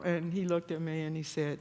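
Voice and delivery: ordinary talk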